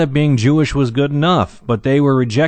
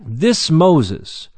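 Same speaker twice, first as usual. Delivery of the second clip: "This" lifted high and stressed; emphatic THIS; 4 semitones higher than usual. Acted. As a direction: lean firmly on "This" before "Moses". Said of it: "It's emphatic".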